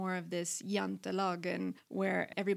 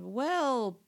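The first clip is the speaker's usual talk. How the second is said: overly familiar; 5 semitones higher, 4 dB louder, much slower than usual. Retold or imitated. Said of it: "Just a little too familiar".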